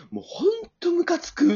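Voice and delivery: high-pitched fed-up complaint; annoyed mother. Retold or imitated. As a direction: voice the mother's irritation.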